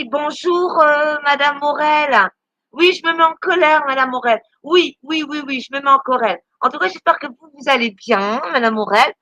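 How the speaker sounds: faux bonjour appuyé, syllabes étirées; lance-lui des politesses traînantes et ironiques; interpellation moqueuse. Adresse moqueuse à Madame Morel. (salutations ironiques et traînantes)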